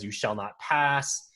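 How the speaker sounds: lightly voiced Gandalf, slow and commanding; a hint of the wizard's command, slowed right down; dramatic Gandalf. Quoting the movie to podcast friends, mild slow Gandalf command. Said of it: "it's very dramatic".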